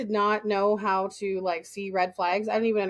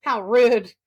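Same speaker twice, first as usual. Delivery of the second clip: mock offence; 3 semitones higher, 4 dB louder than usual. Acts out mock offence at question.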